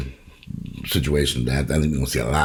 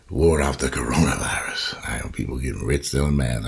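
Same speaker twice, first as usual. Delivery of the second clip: whisper; 3 semitones lower than usual. Real, not acted. Whispering to viewers about getting rich on masks. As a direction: let it slip in a whisper like a secret. Confides about mask profits.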